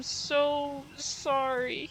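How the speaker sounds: drawn-out apology. Acted. Apologizing after hitting a racer.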